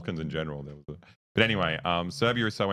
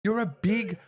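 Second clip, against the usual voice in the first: high, slow mock old lady scolding; hammed-up Serbian granny telling him off; squeaky old woman berating a grown man; old women scolding; 13 semitones higher, 3 dB louder, slower than usual. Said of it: "old women be like".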